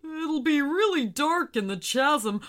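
timid whale, a little scared; gentle, worried sea giant. A narrator's reading. Whale afraid of dark.

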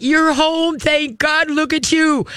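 very high, gushing greeting; high girly voice. Acted. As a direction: greet the dog in an excited girly squeal of words. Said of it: "talk in high girly voices".

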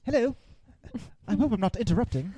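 high, prim droid voice; C-3PO. Retold or imitated. Voicing the droid walking in on a kiss, high droid voice. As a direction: chirp in high as an oblivious interrupting droid.

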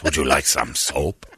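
low, slow, courteous attendant; beautiful speaking voice. Retold or imitated. Attendant offering soap to a guy, beautifully spoken. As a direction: imitate a suave offer of service. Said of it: "He's got a beautiful speaking voice".

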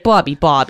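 BOBBY imitated with a heavy drawn New York vowel; mock New York pronunciation. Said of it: "makes fun of me when I say Bobby".

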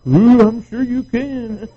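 slow, drawn-out sarcastic retort; mock her with fake sweetness; a touch of slow sarcasm. Sarcastic reply to lady.

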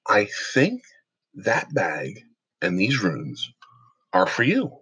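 slow, deliberate, serious retelling; real serious. Retold or imitated. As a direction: pause between phrases, quoting her in earnest. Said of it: "looks at me real serious".

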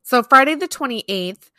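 crisp news-anchor read; reporter voice. Acted. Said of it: "you put your reporter voice on".

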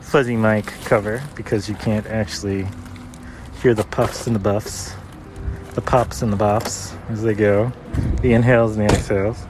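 muffled through a mask; speaking behind a cloth mask; through a face mask. Real, not acted. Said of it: "recording through the mask".

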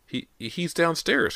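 put-on high, slow, halting girl's voice; stammered. A narrator's reading. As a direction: stammer it out in shock. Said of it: "Cody stammered".

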